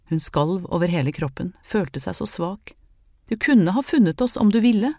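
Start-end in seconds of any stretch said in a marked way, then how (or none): 3.3-4.9 accusing. Acted. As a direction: cut him down with it. She accuses Herman.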